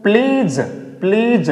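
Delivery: प्लीज said as "plej" with no d; silent d. Shown as a demonstration. Teacher modelling pledge for children, clear. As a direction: say प्लीज with the d left out. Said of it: "तो क्या बोलेंगे".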